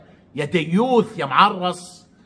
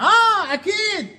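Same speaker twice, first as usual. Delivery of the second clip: much higher, mocking "sure"; sarcastic agreement; 12 semitones higher, slower than usual. Real, not acted. Vlogger mocking Amr's claim, sarcastic yes.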